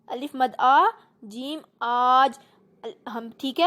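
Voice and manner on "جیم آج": آج with the long آ drawn out slowly; stretched madd vowel. Shown as a demonstration. Teacher drawing out the madd vowel for pupils. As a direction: pull the آ in آج long. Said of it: "مد کو ہمیشہ ذرا کھینچ کر لمبا کر کے پڑھتے ہیں".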